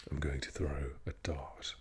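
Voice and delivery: posh English "dart", R dropped, T sounded; royal-style English accent with a crisp T in "dart". Shown as a demonstration. Showing posh English pronunciation, posh accent with no R in "dart". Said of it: "in the posh English, you would pronounce the T".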